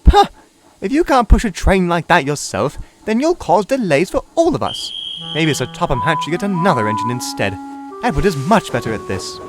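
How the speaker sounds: annoyed scoff. Acted. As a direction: scoff and scold her for holding everyone up. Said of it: "He was most annoyed".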